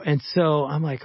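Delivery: usual speaking voice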